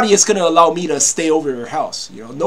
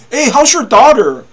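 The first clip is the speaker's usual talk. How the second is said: creepy neighbor; 8 semitones higher, 11 dB louder than usual. Retold or imitated.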